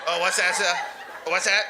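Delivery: mock hard-of-hearing call; calling to a heckler. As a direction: pretend you can't hear, call out. Calls out to a heckler.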